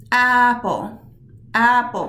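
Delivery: "Apple" hit on the first syllable, AP-ple; stress trick demo. Shown as a demonstration. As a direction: press into the "ap" of "Apple" like the chin on the hand. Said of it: "try this little trick with me".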